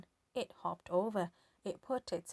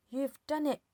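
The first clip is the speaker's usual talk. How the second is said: put-on old woman shouting; 6 semitones higher, 4 dB louder than usual. A narrator's reading. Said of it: "Grandma shouted".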